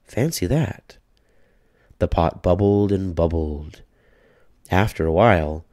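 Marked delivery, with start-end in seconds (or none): 0.0-1.0 put-on high, slow, amazed old lady; old woman marvelling, higher and slower; little old lady, marvelling. A narrator's reading. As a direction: savour the wonder of it. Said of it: "said the little old lady".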